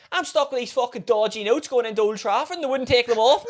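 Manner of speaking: high-pitched whinge, breaking towards laughter; mock exasperated complaint. Regular telling his waiter about refused notes, mock exasperated. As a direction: imitate an aggrieved customer while amused.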